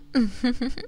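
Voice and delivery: a quiet, breathy little giggle; soft giggle. Acted. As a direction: giggle playfully under your breath. Playful after promising kisses.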